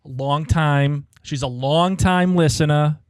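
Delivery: lightly imitated East Coast accent; mimicking caller's accent. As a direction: echo a New York accent, drawn out on "long".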